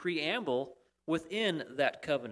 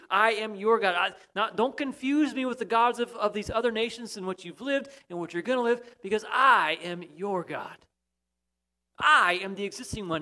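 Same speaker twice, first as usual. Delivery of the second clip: loud, raised proclamation in God's voice; 4 semitones higher, 6 dB louder than usual. Acted. Preacher voicing God to the congregation, a loud commanding proclamation. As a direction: thunder it out as God claiming his people.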